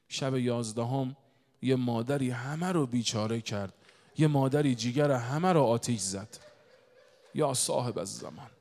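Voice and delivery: slow, drawn-out lament; grieving preacher's delivery; mourning sermon. Real, not acted. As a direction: let each phrase fall heavily with pauses.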